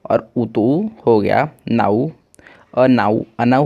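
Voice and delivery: slow, blending sounds step by step. Shown as a demonstration. Teacher slowly blending syllables into अनाउ for students. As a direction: build the word sound by sound, slowly. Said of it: "बन गया ना".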